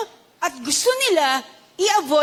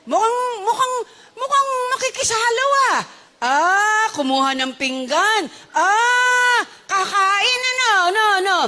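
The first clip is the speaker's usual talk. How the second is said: hammed-up, high-pitched shock; scandalized onlooker; 7 semitones higher than usual. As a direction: gasp as a gossip watching a scandal unfold. Gulat na Pariseong nakamasid, inaarte. (kunwaring gulat na gulat)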